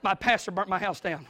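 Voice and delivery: a church member quitting in jest; a touch of mock outrage; indignant joke. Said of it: "you're like".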